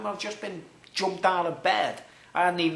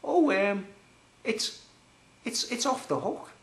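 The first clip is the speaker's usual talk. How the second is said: higher, hammed-up flustered man; mock homeowner on the phone; 5 semitones higher than usual. Homeowner reporting the phone is off the hook, hammed-up and higher. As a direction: put on a fussy, hesitant voice, pitched up. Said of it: "and he goes".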